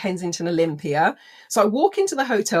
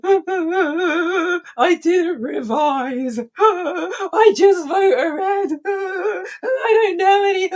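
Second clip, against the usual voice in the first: high, slow sobbing through laughter; ugly cry; 9 semitones higher, 4 dB louder, much slower than usual. Retold or imitated. Crying to her teammate in the bathroom, high sobbing wail. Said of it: "the Oprah ugly cry".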